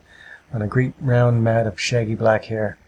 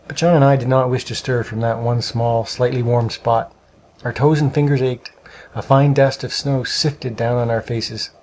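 plain reading voice

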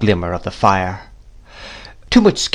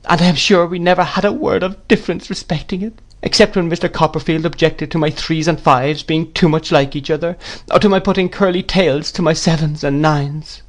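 lightly tearful, pitched higher; a touch of distressed widow; 7 semitones higher than usual. A narrator's reading. Widow explains to the aunt, a touch tearful. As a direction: tell it through mild distress, close to breaking. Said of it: "resumed my mother in another burst".

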